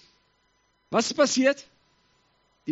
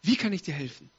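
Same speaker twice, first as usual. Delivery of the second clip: lower, gentle helping voice; kind offer; 4 semitones lower than usual. Acted. The Lord to one who came, gently. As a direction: offer help tenderly.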